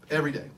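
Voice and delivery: "Every" stressed, words set apart; "Every day" as its own punchy beat. Real, not acted. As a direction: hammer home every day. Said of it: "every day I'd walk past".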